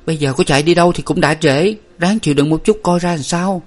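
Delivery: steady your sister, pretending to be calm; controlled big-sister reassurance; feigned calm. A narrator's reading. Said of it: "Nguyệt phải làm tỉnh".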